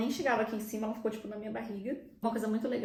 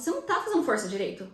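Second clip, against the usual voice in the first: curt midwife; 4 semitones higher, 4 dB louder, faster than usual. Retold or imitated. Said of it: "achei que ela foi grossa mesmo".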